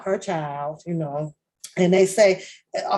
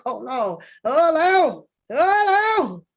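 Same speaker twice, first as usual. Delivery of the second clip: rising higher and louder with each hold on; fake Cousin Levi voice; 8 semitones higher, 3 dB louder, slower than usual. Mocking the reality show cast in Cousin Levi's voice. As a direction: stretch it out, climbing like Cousin Levi. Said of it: "In the fake Cousin Levi voice".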